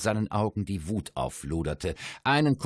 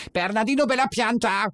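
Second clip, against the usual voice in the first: high, loud theatrical crowing; crowing dwarf voice; 13 semitones higher, 5 dB louder than usual. A narrator's reading. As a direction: crow the name like a gleeful dwarf. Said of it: "krähte es".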